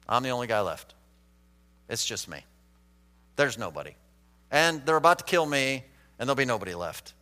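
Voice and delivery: low, soft, defeated retelling; dejected Elijah. Retold or imitated. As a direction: sink into quiet self-pity, voice dropping away. Voicing a depressed Elijah.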